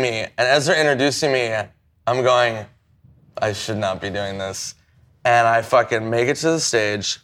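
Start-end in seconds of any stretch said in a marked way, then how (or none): 3.4-4.7 low, quiet aside to himself; hushed self-doubt. Retold or imitated. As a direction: say it under your breath, low and soft. Muttering doubts to himself before going on.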